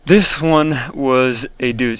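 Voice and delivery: speaking with a numb mouth; numb mouth after surgery. Real, not acted. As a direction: talk through numb lips after surgery. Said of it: "my mouth is still numb from surgery".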